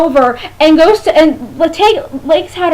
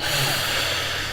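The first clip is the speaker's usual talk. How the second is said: dreamy sigh; 13 dB quieter than usual. Retold or imitated. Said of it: "and I'm like".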